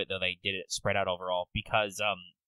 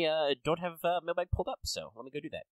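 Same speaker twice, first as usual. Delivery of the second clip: higher, more audible repeat; repeating to be heard; 6 semitones higher than usual. Real, not acted. Answering co-host who missed it, raised repeat. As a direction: say it over for someone who missed it. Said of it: "Said I".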